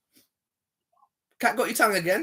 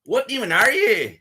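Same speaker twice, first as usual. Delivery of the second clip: drawn-out, raised mocking mimicry; mocking imitation; 5 semitones higher, 4 dB louder, slower than usual. Streamer apes the caller's insult back, mockingly. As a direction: echo the insult slowly in a mocking copy.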